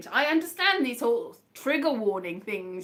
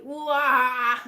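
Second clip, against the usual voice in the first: drawn-out pretend cry; mock wail; 4 dB louder than usual. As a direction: wail as if losing it, hammed up. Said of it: "I've got all sort of like".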